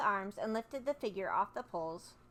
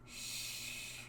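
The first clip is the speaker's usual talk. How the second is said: shh; 13 dB quieter than usual. Acted. Narrator hushes listener.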